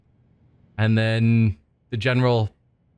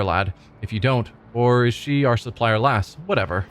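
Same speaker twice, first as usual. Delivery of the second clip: lightly voiced thugs trading jabs; a hint of rough gangster banter; gang thugs bickering. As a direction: play the crooks squabbling over loot. Voices gang members' recorded chatter.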